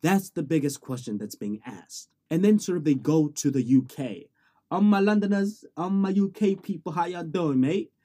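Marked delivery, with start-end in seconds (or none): 4.7-7.9 higher, loud put-on British accent; mock British accent. Student greeting UK people, mock British accent. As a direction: hail the Londoners in a playful British accent. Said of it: "I know I'm doing that accent".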